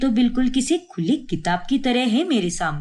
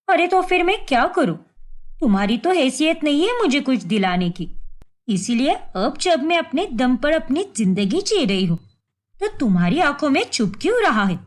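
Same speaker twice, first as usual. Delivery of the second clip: heated retort. Acted. Wife quarrels with husband.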